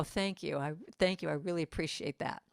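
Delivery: a quiet, honest thank-you; sincere thanks. Shown as a demonstration. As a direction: accept the praise gently and plainly. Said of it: "if you really take it and go".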